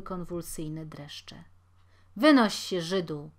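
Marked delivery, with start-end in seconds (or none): 2.2-3.3 loud, rough dismissal; booming order. Acted. Cooper throwing the Jew out, loud booming order. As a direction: bark him out of the yard. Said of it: "huknął Marcin".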